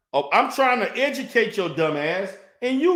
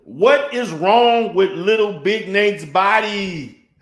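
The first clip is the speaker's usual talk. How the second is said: louder, demanding what is wrong; loud incredulous rant; 6 dB louder, slower than usual. Real, not acted. Ranting at his rival's looks, loud and incredulous. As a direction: shout the question in disbelief.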